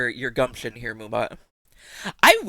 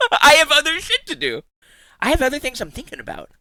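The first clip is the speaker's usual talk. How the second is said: laughing exasperation; 10 semitones higher than usual. Real, not acted.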